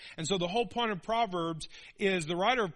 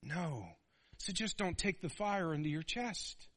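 lightly voiced wise father; fatherly counsel; 2 semitones lower, 4 dB quieter than usual. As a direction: gently warn your son. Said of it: "And he goes".

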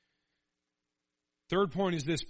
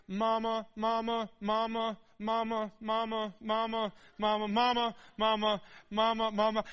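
high, louder nagging mama calls; whiny kid calling; 6 semitones higher, 4 dB louder than usual. Retold or imitated. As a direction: keep calling like an impatient child. Kids calling mom nonstop.

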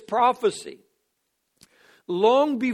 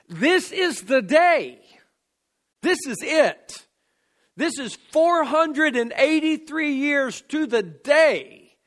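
raised, deliberate preaching emphasis; emphatic proclamation; 4 semitones higher than usual. Real, not acted. Preacher announcing the prophecy fulfilled to the day, emphatic proclamation. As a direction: land each short declaration with weight and space.

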